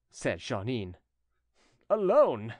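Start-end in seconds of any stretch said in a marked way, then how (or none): 1.9-2.5 higher exclamation falling at the end; emphatic disbelief. A narrator's reading. Jeannin questions his lone return, incredulous. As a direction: repeat it harder, in disbelief.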